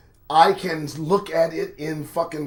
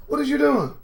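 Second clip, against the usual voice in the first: high, disbelieving call to a reckless friend; asking what on earth she's doing; incredulous friend; 9 semitones higher, faster than usual. Pretend. Friend pleading with Ashley, high and incredulous.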